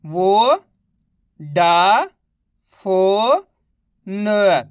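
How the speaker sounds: वो, डा, फो, न each held long and set apart; direct matra reading. Shown as a demonstration. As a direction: sound out वो, डा, फो, न with clear gaps. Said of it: "direct मात्रा का उच्चारण करके पढ़ेंगे". (वो, डा, फो, न को अलग-अलग खींचकर बोलना)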